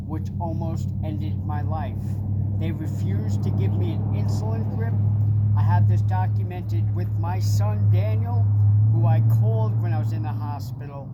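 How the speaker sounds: loud, furious outburst at the hospital; a real shouted rant about being refused insulin; real angry shouting. Real, not acted. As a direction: shout it out in raw anger. Angry complaint about hospital treatment.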